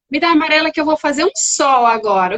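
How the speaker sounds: upbeat, enthusiastic coaxing; playful redirection. Retold or imitated. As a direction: invite a child into the game, acted. Demonstrating playful redirection of child.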